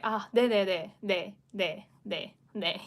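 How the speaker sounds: quick enthusiastic string of 네, fading out; 像连连点头一样热情地说“네”; eager repeated yes. Shown as a demonstration. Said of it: "enthusiastically, expressing the yes".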